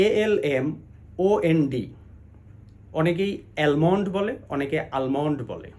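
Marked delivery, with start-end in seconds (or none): 3.6-4.1 almond as al-mond, L sounded; flat-a al in almond; almond misread with the L. Shown as a demonstration. Teacher quoting one common mistake, almond with its L sounded. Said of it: "অশুদ্ধ উচ্চারণ". 5.0-5.4 almond with open a and sounded L; almond misread as aal-mond. Shown as a demonstration. Teacher quoting another mistake, almond said as aal-mond. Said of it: "অশুদ্ধ উচ্চারণ".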